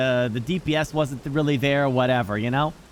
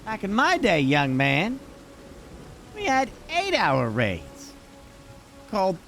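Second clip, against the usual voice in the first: put-on old-timer voice. Mock old-timer lecturing friend.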